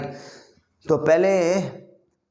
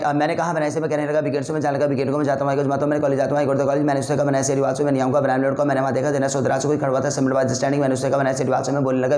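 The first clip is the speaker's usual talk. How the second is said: breathless, level-pitched bilingual rattle; rapid-fire drill. Shown as a demonstration. Teacher retries the Hindi-English speed round, rapid-fire without pauses. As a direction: race through the sentences without stopping for air. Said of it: "बीच में सांस ले लिया यार".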